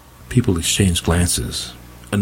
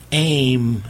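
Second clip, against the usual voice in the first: higher, sharp order; shouted command; 6 semitones higher than usual. Acted. Vera commanding her fighters, high shout. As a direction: snap it out as a battle order. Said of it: "Vera cried".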